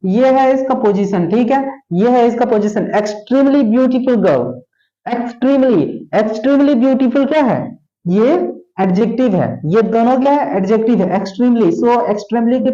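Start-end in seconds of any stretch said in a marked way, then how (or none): 3.0-7.3 slow dictation. Shown as a demonstration. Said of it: "teacher repeats example phrase".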